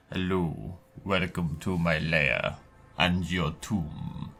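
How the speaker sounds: lightly voiced vampire inviting you to your doom; dramatic vampire greeting. Shown as a demonstration. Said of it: "that's better".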